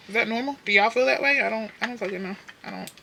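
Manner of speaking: ordinary delivery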